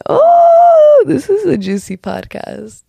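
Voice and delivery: long, high-pitched ooh of intrigue, easing down; mock-scandalized squeal, then settling; teasing excitement. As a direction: react like you smell juicy gossip. Voices audience's reaction to podcast.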